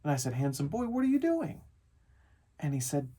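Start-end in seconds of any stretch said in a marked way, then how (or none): 0.3-1.6 doting parent talk. Retold or imitated. Dad to his son lying dressed in bed, doting question. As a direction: voice lifting high at the end.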